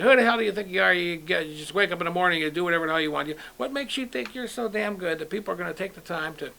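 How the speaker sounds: a furious dad, hammed up; angry father. Son retelling his angry dad yelling at him. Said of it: "my dad would always say".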